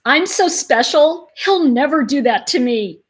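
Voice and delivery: mock a woman fooling herself; naive woman. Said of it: "women shut down and go".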